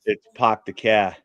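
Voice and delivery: Boston accent. Shown as a demonstration. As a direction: show how Boston says it. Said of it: "If you're in Boston".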